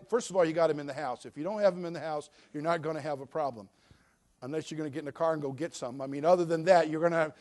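normal talking voice

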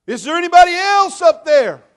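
high, loud panicked yell; desperate shout upward. Acted. Hanging man yells up for someone else, high and loud. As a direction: shout up, hoping for another answer.

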